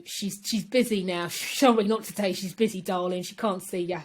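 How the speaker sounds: lightly hammed-up London working-class voice; East End accent. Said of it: "I don't know why I put that accent on".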